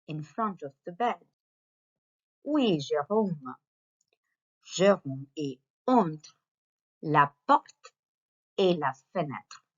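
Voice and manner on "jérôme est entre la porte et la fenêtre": slow, emphatic model read; slow model sentence. Shown as a demonstration. Teacher models the sentence slowly. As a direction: stretch entre so pupils hear it. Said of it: "teacher models sentence".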